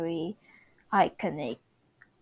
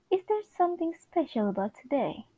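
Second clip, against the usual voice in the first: put-on Wanda's accent; 3 semitones higher, faster than usual. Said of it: "Wanda Maximoff's accent".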